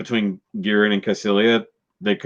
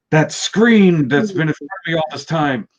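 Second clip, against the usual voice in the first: higher, louder, dawning surprise; mock realisation; 7 semitones higher, 3 dB louder than usual. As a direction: gasp and realise it was there all along. Garma realises the threat.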